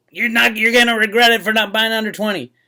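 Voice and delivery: loud, insistent, all-out yell. Speaking to the audience about buying silver, yelling. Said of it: "I'm yelling it right now".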